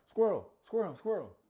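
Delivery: high squeaky squirrel squirrel; distracted squirrel call. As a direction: squeal it like easily distracted girls. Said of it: "They're like".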